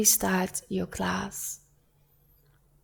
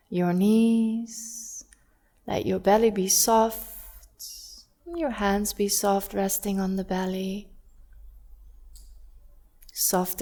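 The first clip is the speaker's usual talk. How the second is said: guided body scan. Real, not acted. Yoga teacher guiding students to soften and breathe, calm and measured. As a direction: ease them gently into breathing, unhurried.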